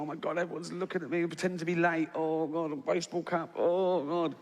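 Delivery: mock-mortified inner voice, groaning oh God; horrified. Comic retelling embarrassment at skipping the queue, horrified. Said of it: "you're sort of horrified".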